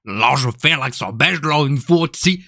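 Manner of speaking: mock Belgian French lilt; Belgian accent. Shown as a demonstration. Streamer demonstrating Belgian to viewers, Belgian accent. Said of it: "Après, le belge, c'est".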